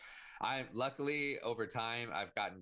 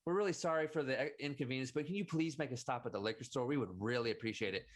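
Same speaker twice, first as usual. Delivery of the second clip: polite passenger; 3 semitones higher than usual. Retold or imitated. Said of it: "thank you for asking nicely".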